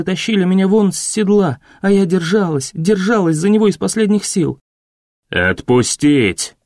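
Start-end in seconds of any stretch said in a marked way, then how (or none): 5.3-6.6 low, slow calm command. A narrator's reading. The mayor stops the soldiers, low and slow. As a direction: cut through the noise without raising it. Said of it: "велел голос".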